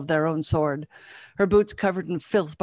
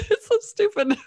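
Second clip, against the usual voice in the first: high giggly laughing fit; real laughter; 4 dB louder than usual. Real, not acted. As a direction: laugh through the words. Reader breaks up mid-reading.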